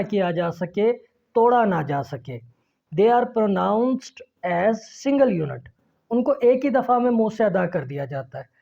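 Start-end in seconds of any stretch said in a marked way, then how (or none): 2.9-5.6 slow, word-by-word English read-aloud; teacher's model reading. Shown as a demonstration. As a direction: read each sentence slowly for young learners. Reads definition to pupils. (ठहर-ठहर कर पढ़ाती आवाज़)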